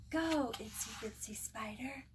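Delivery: whispered cheer, no voice. Acted. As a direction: breathe the cheer as a secret. Chant fading to whisper.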